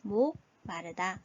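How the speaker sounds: 목마르다 said slowly and deliberately; slow repeat. Shown as a demonstration. Teacher repeats the meaning slowly for students. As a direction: drag the word out gently. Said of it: "어떤 의미죠".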